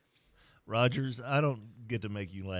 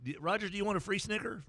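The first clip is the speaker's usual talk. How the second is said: mock sly offer; 11 semitones higher than usual. Setting up the snicker joke.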